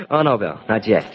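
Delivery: laughing through the words; amused chuckling. Acted. Drew puts off impatient Bill, chuckling. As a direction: chuckle as you put him off.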